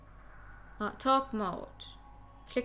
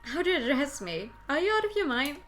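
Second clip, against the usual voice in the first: higher-pitched mocking disbelief; scornful amusement; 5 semitones higher, 3 dB louder than usual. Captive asks how to address the girl, scornfully amused. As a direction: toss it back as mildly mocking questions. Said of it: "she burst into laughter".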